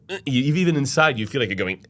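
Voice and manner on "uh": closed, inward uh sound; closed vowel. Shown as a demonstration. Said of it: "you go".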